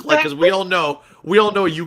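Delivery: high burst of laughter; laughing. Real, not acted. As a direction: laugh through the words. Laughing at own jab.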